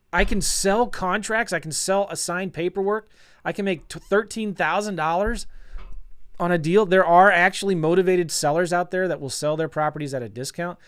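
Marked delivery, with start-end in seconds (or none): 0.1-9.1 excited. Real, not acted. Giddy realization of success.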